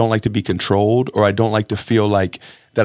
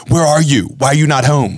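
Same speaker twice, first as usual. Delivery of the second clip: read as angry; 5 semitones higher, 3 dB louder than usual. Retold or imitated. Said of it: "I'm reading it like".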